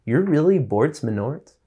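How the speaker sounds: retold astonishment, lifting the pitch; disbelief. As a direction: ask it as if you can't believe it. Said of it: "I couldn't believe it".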